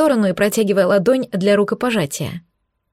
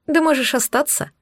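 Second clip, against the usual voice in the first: higher, sly sing-song; sing-song teasing; 5 semitones higher than usual. Acted. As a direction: tease him sweetly. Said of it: "пропела я".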